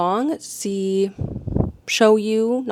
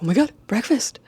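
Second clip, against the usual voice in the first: higher mock-excited pet voice; pet's voice; 4 semitones higher than usual. Pet expecting food at four thirty, higher mock-excited voice. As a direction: lightly act out an eager pet. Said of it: "he's like".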